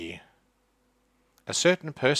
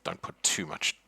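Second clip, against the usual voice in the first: soft, muttered aside; muttered under breath; 3 semitones lower, 6 dB quieter than usual. Acted. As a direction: mutter it so she can't hear. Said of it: "he sort of mutters under his breath".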